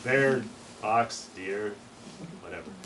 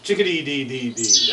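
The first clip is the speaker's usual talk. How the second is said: chickadee scolding; 8 dB louder than usual. Shown as a demonstration.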